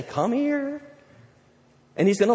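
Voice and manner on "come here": high, coaxing invitation; welcoming call. Acted. God calling the believer who slipped, welcoming voice. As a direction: lift it high, as if beckoning a child. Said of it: "He's gonna say".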